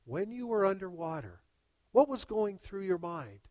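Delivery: measured, composed question; calm master. Acted. Master questioning the student just pulled from the water, calm. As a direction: ask it evenly, unruffled after the struggle. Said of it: "the master calmly looks at him and says".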